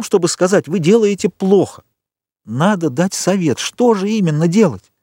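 lightly voiced impatient girl; insistent young woman. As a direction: push him for an answer. Valentine demands advice.

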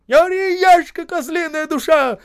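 loud, high furious shout. A narrator's reading. Foreman yelling at a squealing worker on the ice. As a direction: yell it at him, threatening. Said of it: "кричал Осип".

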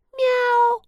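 high, slow imitated meow; cat meow. A narrator's reading. Cat heard from above.

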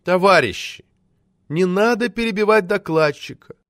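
honeyed, high-pitched plea; affectionate request. A narrator's reading. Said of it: "ласково попросил Т Т". (ласковая просьба)

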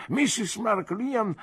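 put-on doddering old doctor, halting and fading into hesitations; rambling old man losing his thread; kindly old doctor. Old doctor talking about his wife Annie, hesitant and fading.

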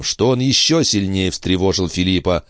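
ordinary delivery, nothing marked

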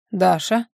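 Даша drawn out with a rising end; drawn out name. A narrator's reading. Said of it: "протянул он".

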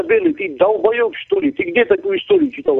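high, heated scorn; angry outburst. Real, not acted. Caller mocking the insulter's history, high angry scorn. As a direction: scoff at him up high. Raging at racist claims.

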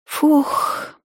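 breathy drawn-out sigh out; long tired exhale. A narrator's reading. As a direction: heave a long weary sigh. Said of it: "протяжно вздохнула". (протяжный усталый выдох)

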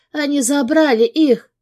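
high, loud sobbing cry. A narrator's reading. Sobbing wife telling husband children were taken. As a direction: wail it through tears. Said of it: "всхлипывает она".

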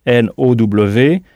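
slow spelling of N O W; épeler lentement; spelled slowly. Shown as a demonstration. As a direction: spell it letter by letter. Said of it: "se dit now".

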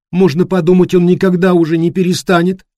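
high, whining on the verge of tears; whiny tearful voice. Acted. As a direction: complain with a tearful whine. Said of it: "плаксивым голосом сказала Эллен".

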